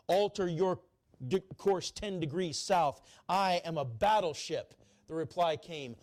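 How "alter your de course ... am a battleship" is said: commanding, louder and higher; furious captain. Retold or imitated. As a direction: bark the order as an outraged captain. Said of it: "The furious captain signaled".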